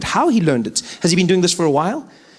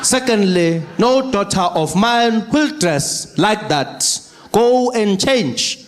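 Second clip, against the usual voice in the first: stern slow dad; slower than usual. Retold or imitated. Father scolding daughter.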